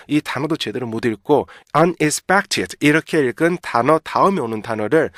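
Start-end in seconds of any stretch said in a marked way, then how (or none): 1.8-2.8 "unexpected" split after un, stiffly stressed; heavy learner's reading. Retold or imitated. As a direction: imitate a laboured "unexpected". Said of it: "너무 무겁고 어렵게".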